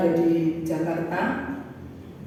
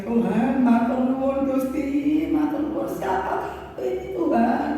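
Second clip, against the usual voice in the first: tearful thanks; 6 semitones higher than usual. Retold or imitated. Preacher re-enacting his crying thanks to God, mildly tearful. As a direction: re-enact a moved, tearful prayer. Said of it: "air mata ini langsung nangis".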